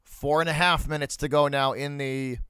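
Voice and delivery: hockey commentator calling the action; play-by-play call. Acted. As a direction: call the puck movement like a broadcast.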